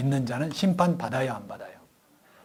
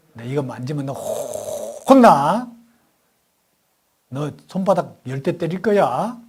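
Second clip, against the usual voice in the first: mock stern mother; 5 dB louder, slower than usual. Mother threatening daughter in story.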